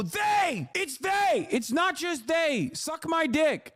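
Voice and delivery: high, shrieking mock outrage; mock outraged chatter. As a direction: shriek it like an offended troll. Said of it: "and you go".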